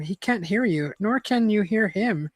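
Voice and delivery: measured read-aloud narrator; story narration. A narrator's reading. Reader telling listeners an adventure story, measured narration.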